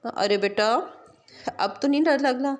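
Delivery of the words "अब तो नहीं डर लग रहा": put-on child making friends with animals; little girl cheerful. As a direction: chatter like a happy small child. Child no longer scared.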